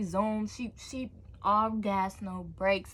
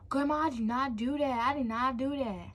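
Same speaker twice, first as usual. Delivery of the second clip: higher-pitched insistent plea; protesting denial; 5 semitones higher than usual. Retold or imitated. Child denying car theft to grandma, protesting. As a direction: protest your innocence to an accuser.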